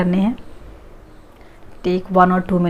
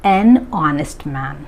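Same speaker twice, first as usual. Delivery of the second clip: slow model answer; 3 semitones lower, much slower than usual. Shown as a demonstration. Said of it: "तो आप यहाँ पे add करेंगे".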